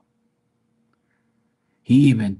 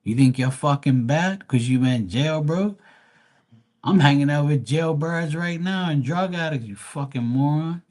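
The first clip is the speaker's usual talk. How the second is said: higher mocking taunt; 4 semitones higher than usual. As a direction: taunt the silent guy at the club. Taunting him at club.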